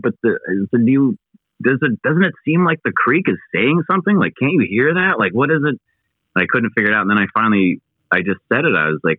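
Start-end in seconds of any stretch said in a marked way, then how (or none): 0.0-5.8 pitched-up pleading question; begging him to hear it too; insistent questioning. Retold or imitated. Pressing his buddy whether the creek speaks, high and insistent.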